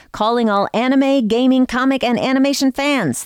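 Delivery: high, bright promo call; excited call-out. Real, not acted. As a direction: hype up the fans. Host's excited promo opening.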